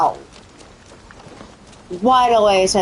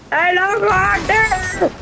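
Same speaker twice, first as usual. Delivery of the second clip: "I don't go out there!" repeated higher, with a rise on "go"; quoting himself, pitched up; 9 semitones higher than usual. Retold or imitated. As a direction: replay the warning, higher. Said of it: "Well, I did say".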